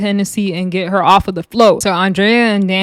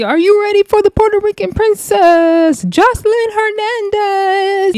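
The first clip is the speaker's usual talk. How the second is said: announcer; 12 semitones higher than usual. Retold or imitated. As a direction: belt it out like an MC introducing a star. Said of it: "So you just see".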